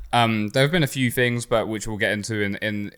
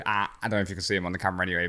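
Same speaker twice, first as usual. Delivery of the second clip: slight lisp from aligners; speaking around plastic aligners; talking with a lisp. Real, not acted. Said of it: "I'm talking with a little bit of a lisp".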